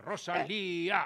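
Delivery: drawn-out name, held back in volume; mock fan shout. Host promising a hospital visit with banners, mock fan cheer. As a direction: pretend to chant from behind a banner. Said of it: "con pancartas a gritar".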